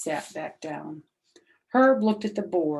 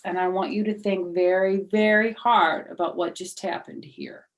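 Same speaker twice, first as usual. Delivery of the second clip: stern teacher; 3 semitones higher, 4 dB louder than usual. Acted. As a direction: address the class like a strict teacher. Teacher addresses the class.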